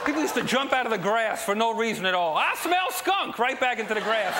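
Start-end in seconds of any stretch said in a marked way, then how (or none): 2.4-3.4 hick voice. Retold or imitated. Hee Haw character line.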